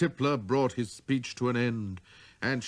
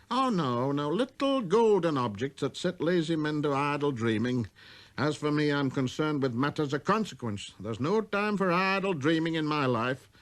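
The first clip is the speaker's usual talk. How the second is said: self-important, slightly higher voice; pompous businessman; 5 semitones higher, 3 dB louder than usual. Acted. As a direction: lecture with busy importance.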